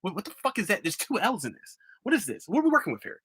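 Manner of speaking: high-pitched mock bewilderment; incredulous, pitch climbing as it goes; baffled reader. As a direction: imitate someone baffled by a misspelling. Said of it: "was like".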